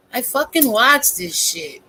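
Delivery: lightly voiced stand-up comedian delivery; a hint of a comic's voice; Dave Chappelle. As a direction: say it like a comedian landing a line. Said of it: "in my Dave Chappelle voice".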